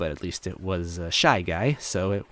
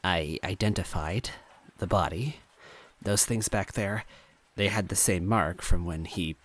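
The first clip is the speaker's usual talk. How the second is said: emotionless. Acted. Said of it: "her voice devoid of emotion".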